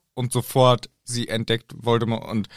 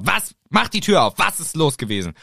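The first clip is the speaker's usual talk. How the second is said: mock Hermione; 3 semitones higher than usual. Hermine und Ron gespielt.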